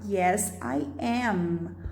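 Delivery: "Yes, I am." softly and slowly, unhurried; gentle slow example; slow model answer. Shown as a demonstration. Teacher models the correct short answer slowly and softly. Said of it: "o certo seria falar".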